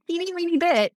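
tiny high squeak, quick; squeaky voice. Shown as a demonstration. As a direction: squeak it out small and fast. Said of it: "I'm using, like, a little squeaky voice".

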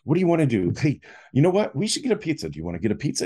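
hammed-up jolly cheer. Younger brother trying to cheer him up, eager jolly voice. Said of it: "trying to be really jolly for me".

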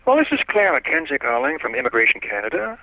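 lightly put-on high little official voice; quiet little voice. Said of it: "kind of a quiet little voice".

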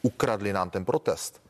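slow, deliberate quoting of the farmers' words; quoting the farmers. Retold or imitated. Minister slowly quoting farmers who left the protest, deliberate. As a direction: lay out "ukradli" slowly, word by word. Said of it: "oni sami zemědělci použili, použili pojem".

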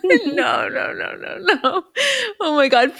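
giggling no no no; laughing through the words; laughing protest. Real, not acted. Laughing in embarrassment.

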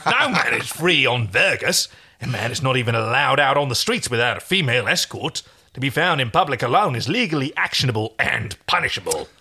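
deliberate, lecturing stallkeeper voice; stern stallkeeper. Acted. Stallkeeper explains the planet's law to John, stern. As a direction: lay down the law emphatically. Retake after losing the voice.

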